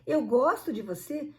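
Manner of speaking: "gosto" stressed, with a rising end; lilting, rising emphasis on "gosto"; questioning intonation. Shown as a demonstration. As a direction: say "gosto" as if casting doubt on it. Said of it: "A entonação".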